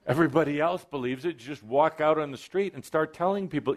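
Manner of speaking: ordinary talk, nothing marked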